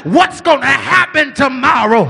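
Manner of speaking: complaining disciples. Retold or imitated. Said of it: "the people were complaining and saying".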